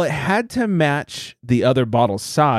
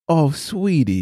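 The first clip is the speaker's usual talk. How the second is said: tender cooing; much slower than usual. Retold or imitated. Friend cooing at the innocent husband, slow and tender. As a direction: coo it slowly like to a sweet child. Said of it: "it's tender".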